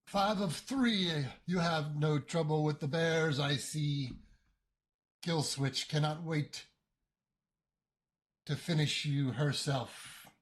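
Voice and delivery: slow, cold mechanical voice; metallic voice. Acted. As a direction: speak like a menacing machine. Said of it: "you hear another one of those metallic voices".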